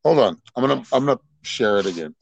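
talking with a bitten tongue; words round a hurting tongue; sore tongue. Real, not acted. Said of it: "it hurts my tongue when I talk right now".

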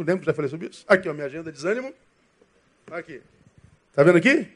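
normal talking voice

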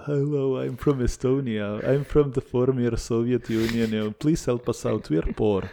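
lightly put-on Transylvanian accent; pleading in a Transylvanian accent. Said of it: "in my Transylvanian accent".

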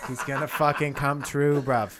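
laughing through a put-on London accent; mock London accent. Friend cheering his bet, laughing mock London accent. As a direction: hype it up like a London lad. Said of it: "stop using the fucking accent".

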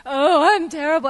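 mock-wounded outburst; hammed-up self-pity, bursting out on the first word; hurt overreaction. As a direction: act out taking it far too personally. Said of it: "they're likely gonna take it personally".

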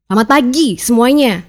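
firm greeting with a push on "pagi"; different tone, firm. Shown as a demonstration. Coach contrasting tones of one greeting, firm delivery. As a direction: greet them firmly, landing on "pagi". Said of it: "Tone bisa menunjukkan ketegasan".

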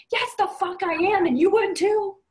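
loud, high, indignant comeback; defiant retort. Retold or imitated. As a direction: fire back at doubters, proudly unrepentant. Acted defiant retort to his friends.

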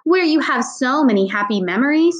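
forced, bright grown-up cheer; fake cheerful. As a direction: sell the happiness a little too hard. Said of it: "one of those fake cheerful voices grown-ups use".

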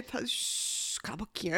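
slow soft hushed teasing; playful shush. Retold or imitated. Jokingly hushing a stubborn person, slow and soft. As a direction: hush them gently as a joke. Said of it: "na base da brincadeira".

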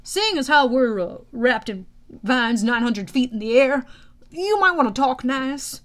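uneasy, hesitant sidekick advice; mildly nervous, with halting phrasing. Acted. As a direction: gingerly urge the boss to behave. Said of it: "Blackjack said nervously".

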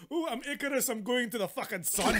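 lightly hammed Scottish hero; Scottish accent. Replaying Icarus's exit for the co-hosts, light Scottish accent. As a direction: put on a daft Scottish accent. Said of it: "I do like the Scottish accent".

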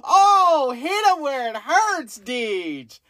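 high, squealing laughter through words; cracking up. Real, not acted. Co-host reacts to host's jab at NASA, cracking up. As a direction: egg them on in a drawn-out, high laugh-voice.

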